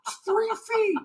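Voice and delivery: very high, strained mock yell; hammed-up exasperated captain scolding. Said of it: "the captain will be yelling at me".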